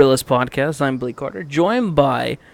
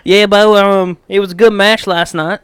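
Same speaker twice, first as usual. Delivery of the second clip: higher and louder, a hammed-up Bulgarian wrestler accent; a bad put-on Bulgarian accent, much higher and louder; mock Bulgarian accent; 6 semitones higher, 6 dB louder than usual. Host imagining Rusev's accent slipping, hammed-up Bulgarian accent. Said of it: "Could you imagine?".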